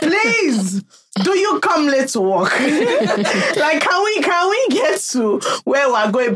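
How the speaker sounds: mock plea through laughter; laughing. Real, not acted. Laughing while mocking.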